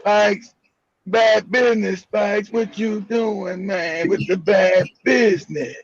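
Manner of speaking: lightly voiced sleepy mumble, slow; half-asleep drawl. Teasing Samuel for sounding lethargic on air, slow sleepy mimicry. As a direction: mimic a man barely awake, words dragging. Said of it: "Samuel be talking like he halfway asleep".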